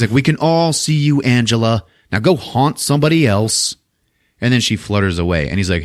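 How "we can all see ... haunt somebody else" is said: teasing dismissal. Retold or imitated. Prankster teases the would-be ghost.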